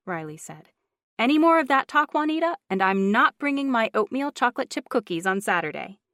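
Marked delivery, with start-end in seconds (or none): 1.2-6.0 high, loud mock warning; playful threat. A narrator's reading. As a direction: tease her with a threat.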